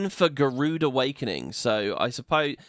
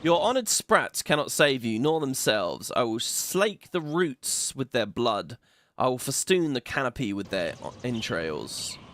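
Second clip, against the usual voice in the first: evil Garuda voice. Acted. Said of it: "generic evil dialogue from Gru-, Garuda".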